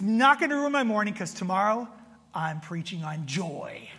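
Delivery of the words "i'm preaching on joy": slow, soft, laughing through it; laughing at himself. Real, not acted. Laughing at the irony of preaching on joy. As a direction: chuckle at your own irony. Ironic punchline before Sunday sermon.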